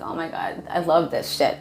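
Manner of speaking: hushed delight. Retold or imitated. Delighted at spiritual surprises.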